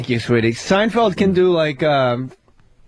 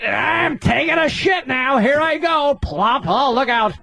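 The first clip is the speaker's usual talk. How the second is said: white guy impression; 4 semitones higher, slower than usual. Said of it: "You ever see a white motherfucker".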